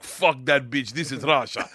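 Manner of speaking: lightly voiced Russian accent; retold gangster line with a hint of Russian; Igor. Gangster dismissing the teacher, mild Russian accent. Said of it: "he's like".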